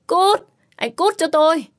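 high, loud furious scream. Acted. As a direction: throw him out with your voice. Screams at Đặng Ninh again.

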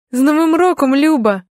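bright, high, loud holiday wish; joyful greeting. A narrator's reading. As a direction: greet a close friend with delight. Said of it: "говорю радісно".

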